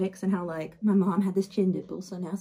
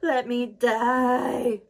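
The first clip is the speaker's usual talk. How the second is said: a sudden raised cry, then the words dragged out slowly; despairing plea; 5 semitones higher, 6 dB louder, much slower than usual. Retold or imitated. Healed captive begging her rescuer to let her die, despairing. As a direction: beg to be left to die. She's like.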